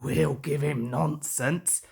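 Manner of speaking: low, sly truck voices with a hint of a giggle; mischievous trucks plotting; giggling trucks. A narrator's reading. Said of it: "giggled the trucks".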